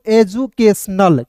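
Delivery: "एजुकेशनल" slowly, as eju-kes-nal; teacher's drawn-out "एजुकेशनल" in parts; syllable-by-syllable reading. Shown as a demonstration. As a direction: sound out "एजुकेशनल" in slow chunks. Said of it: "तो क्या पढ़ेंगे दोस्तों".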